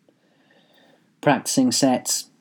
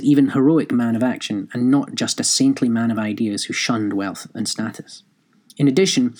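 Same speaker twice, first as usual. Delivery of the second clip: formal read-aloud, lifting the start of each sentence; reading a review aloud. Real, not acted. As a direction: read your printed article out to listeners. Reads own book review aloud.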